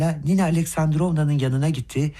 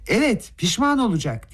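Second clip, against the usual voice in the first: shouting; 7 semitones higher than usual. A narrator's reading. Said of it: "diye bağırdı Rogojin".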